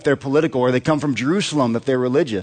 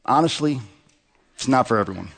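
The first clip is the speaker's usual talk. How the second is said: lightly mock ad slogan, dropping at the end; understated tagline with pauses between phrases; ad campaign voice; 3 semitones lower than usual. Pastor jokes an ad campaign for Galilee, lightly mock slogan voice. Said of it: "might sound a little bit like this".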